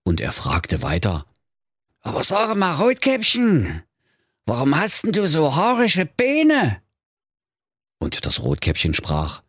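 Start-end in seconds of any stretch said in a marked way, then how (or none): 2.0-6.8 much higher squeaky wolf voice; astonished wolf. Acted. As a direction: ask about the hairy legs in disbelief. Wolf fragt nach Beinen.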